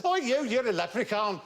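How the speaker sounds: high-pitched mock children's jeer; taunting kids. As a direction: imitate local kids calling someone names. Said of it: "They said".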